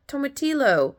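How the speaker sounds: high imitated vendor saying "tomatillo"; name the ingredient in the seller's high voice; taco seller's answer. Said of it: "I think is what she said".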